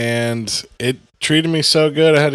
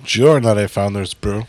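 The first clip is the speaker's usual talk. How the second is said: mock Spanish accent; 2 semitones lower than usual. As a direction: tease back in a put-on Spanish accent. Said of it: "still doing a Spanish accent".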